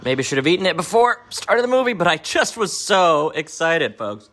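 eating while talking; talking through a mouthful of food; mouth full. Real, not acted. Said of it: "Sorry, I'm eating my".

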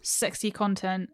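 a hint of slow seductive purr; lightly hammed-up sexy plug; mock sultry. Co-host plugging the show's socials, mildly mock sultry.

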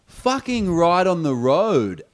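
high, loud, slow angry yell; retold yell. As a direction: yell after the cyclist in annoyance. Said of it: "I yelled after".

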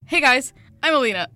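bright, loud greeting like a shop clerk; customer service voice. Pretend. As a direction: greet them like a call-center agent. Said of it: "Customer service voice".

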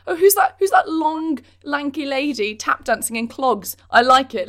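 playful hammed-up spectator cry; delighted festival-goer. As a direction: gush like a thrilled onlooker spotting a dancer.

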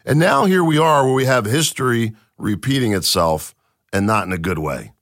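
normal talking voice

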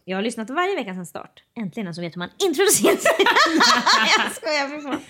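soft, even read of a listener question; reading a letter aloud. Acted. (lugn uppläsning av lyssnarbrev)

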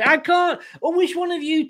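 breaks into a high laugh on "I can't"; can't get the words out for laughing. Real, not acted. Laughing at the channel name.

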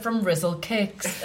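slow formal From a band; newsreader voice. Retold or imitated. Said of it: "He said, like, a newsreader".

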